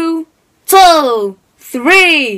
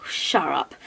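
grumpy dummy snap; 10 semitones lower, 13 dB quieter than usual. Acted. Ventriloquist dummy bickering sketch.

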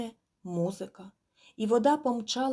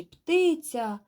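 loud call of surprise, higher; shout; 7 semitones higher, 6 dB louder than usual. A narrator's reading. Bargemen spotting the goose, loud surprised shout. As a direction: call out as you spot a bird. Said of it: "закричали з баржі".

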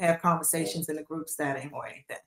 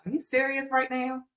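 higher-pitched incredulous question; retold disbelief; 5 semitones higher than usual. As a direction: ask yourself in mild mock disbelief. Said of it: "I just couldn't believe".

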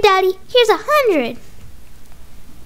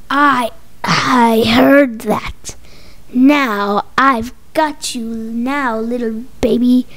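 slow menacing villain; 5 semitones lower, much slower than usual. Acted. Villain creeping up.

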